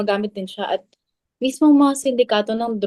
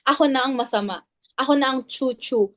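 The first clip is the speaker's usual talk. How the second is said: rising, mock-martyr sarcasm, higher at the end; bitter sarcasm climbing higher; sarcastic self-pity; 4 semitones higher than usual. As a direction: pile it on like a wounded martyr. Sarcastic self-blame after accusation.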